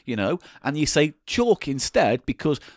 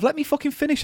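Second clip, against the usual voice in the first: annoyed; 12 semitones higher than usual. Real, not acted. Cut off mid-argument.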